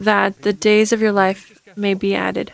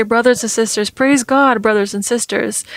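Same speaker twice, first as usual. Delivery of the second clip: a hint of a preacher's accent, praise God pushed louder; lightly mock the church's accented greeting; understated accented brothers and sisters; imitating an accent; 3 dB louder than usual. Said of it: "They say it with an accent".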